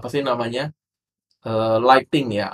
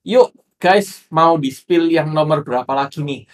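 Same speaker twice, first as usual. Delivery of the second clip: upbeat live host call; 2 semitones higher, 3 dB louder, slower than usual. Retold or imitated. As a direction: hype up the viewers like a TikTok seller. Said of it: "itu biasa dia ngajak".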